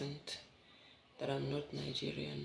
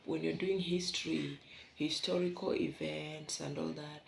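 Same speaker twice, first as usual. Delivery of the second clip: ordinary delivery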